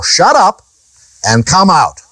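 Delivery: a brisk rebuke of the demon. Shown as a demonstration. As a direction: snap the rebuke out as Jesus. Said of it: "He rebuked him, saying".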